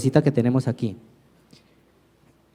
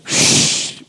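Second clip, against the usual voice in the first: sword shh sound. Pretend. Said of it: "¿Se acuerdan el shh?".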